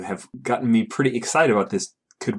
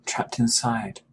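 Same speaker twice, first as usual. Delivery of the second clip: whispered horror; hushed dread; slower than usual. Pretend. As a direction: breathe it out in shock. Player echoes in dread.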